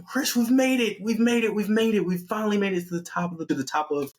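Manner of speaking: high, breathlessly repeated cheer, gradually coming down; hammed-up triumph, pitch descending; excited celebration. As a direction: gush in a put-on high girlfriend voice. The speaker's acted celebration at summit.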